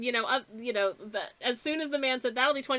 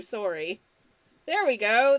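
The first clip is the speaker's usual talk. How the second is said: "sorry" said with a Canadian accent. Speaker discussing regional accents with listeners, in a put-on canadian accent. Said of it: "That sounds Canadian".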